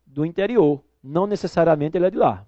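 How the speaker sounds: ordinary talk, nothing marked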